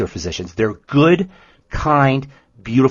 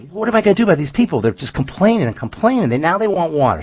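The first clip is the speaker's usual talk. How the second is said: fast, higher fed-up complaint; exasperated Moses; 5 semitones higher, faster than usual. Retold or imitated. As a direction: Moses venting to God. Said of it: "he goes up to God and says".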